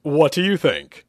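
eagerly fish for approval; excited anticipation, stretched out. Acted. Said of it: "Hugh asked excitedly".

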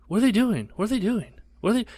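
high anxious mom voice. Retold or imitated. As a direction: mimic mom's fretful repeated question high.

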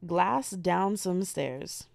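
each word slow and spaced; slow and deliberate. Shown as a demonstration. Telling listeners the exact search words, very slowly. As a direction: spell it out slowly for typing. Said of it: "exactly how I want you to type it".

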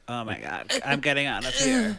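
understated melodramatic escape line; hammed-up desperation, kept soft; mock dramatic. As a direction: play it lightly as a dying movie heroine. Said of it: "like, very dramatically, like".

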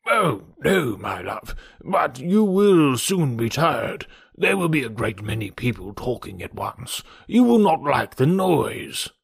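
slow, drawn-out worrying; coaxing fussy father. Acted. Father warning Emma she will soon tire, slow and fretful. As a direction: coax her with long, lilting, stretched words.

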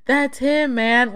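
high, drawn-out squeaky boy imitation; mock prepubescent squeak. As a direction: squeak it like a boy before puberty. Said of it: "with his squeaky-ass voice".

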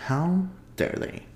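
high, slow mock indignation; mock outrage. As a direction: play scandalized at the dog. Mock outrage at barking dog.

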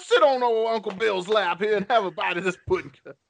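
Bill Cosby impression. Inviting a young man onto his lap for pudding, high and coaxing. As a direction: lure the young man closer. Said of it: "my Bill Cosby impression".

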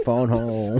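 slow, drawn-out alien catchphrase. Acted. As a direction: stretch both words out slowly like the film alien. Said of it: "They're like E T fingers?".

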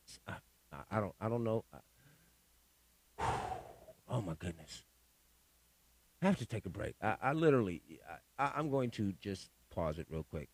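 low, hushed, faltering; needing a pause. Real, not acted. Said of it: "I did have to pause and pace to catch myself".

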